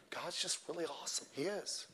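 very soft, hushed parody; mock soothing preacher. Soft-voiced preacher praising God to his church, mock soothing. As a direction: hush it right down, imitating an over-soothing preacher. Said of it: "Men don't talk like that".

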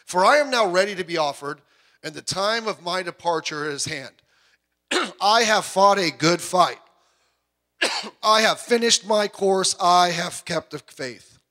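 slow, solemn recitation of Paul; measured scripture reading voice. Acted. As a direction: read it like sacred text. Reads Paul's words from Timothy.

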